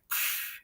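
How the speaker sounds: voiceless puff of air; mind-blown puff. Shown as a demonstration. Guest showing the show's name blows their mind, voiceless puff. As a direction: blow out a short puff of amazement. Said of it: "it blows my mind".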